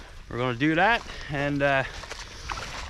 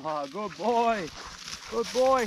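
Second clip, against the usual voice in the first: squeaky praising a dog; 5 semitones higher, 4 dB quieter, slower than usual. Real, not acted.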